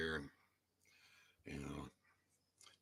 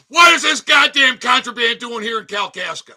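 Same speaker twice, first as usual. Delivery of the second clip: outraged shout; 4 dB louder than usual. Real, not acted. Outraged at a label on a product.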